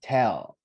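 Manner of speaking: firm, falling TELL; stressed syllable. Shown as a demonstration. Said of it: "the stress".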